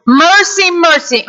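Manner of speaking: a quick acted cry for mercy; pleading servant. Servant crying to the king, lightly pleading. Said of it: "He was crying out for forgiveness".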